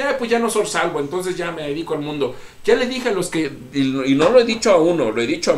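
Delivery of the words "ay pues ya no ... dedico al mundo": high, offhand mock of a careless believer; careless shrug. Mocking the careless believer, lightly offhand. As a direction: toss it off like it doesn't matter. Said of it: "qué fácil decir".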